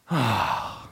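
long, deep falling sigh; big sigh. Retold or imitated. Pastor leaning back at his desk after bad news, heaving a big sigh. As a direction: let the whole weight out in one sigh. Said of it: "like, big sigh".

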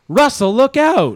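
high, drawn-out yell of alarm; mock warning shout. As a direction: call out a hammed-up warning. Acted warning cry in imagined ceremony.

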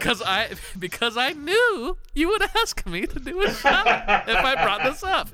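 talking through laughter; laughing. Real, not acted. Laughing while explaining the shot.

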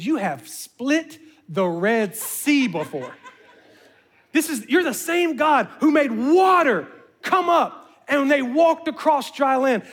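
slow, deliberate pleading prayer; praying for a miracle on the road; slow earnest prayer. Retold or imitated. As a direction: call on God's past miracles, slowly.

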